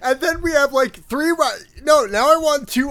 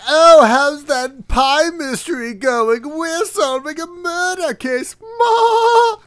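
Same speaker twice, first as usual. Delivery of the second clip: snooty posh voice; 5 semitones higher, slower than usual. Acted. Mocking snooty rival detectives.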